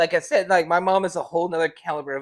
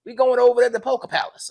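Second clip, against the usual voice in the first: put-on old man voice; 8 semitones higher, 6 dB louder, faster than usual. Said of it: "your old man voice".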